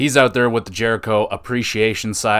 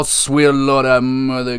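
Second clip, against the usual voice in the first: excited; slower than usual. Real, not acted. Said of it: "Sorry, I'm a little excited".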